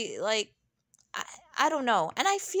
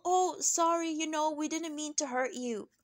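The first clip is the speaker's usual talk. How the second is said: mock fake apology; 3 semitones higher than usual. Mimicking a husband's apology to Sutton, mock insincere. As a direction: imitate a hollow, offhand apology. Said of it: "that was a fake-ass apology".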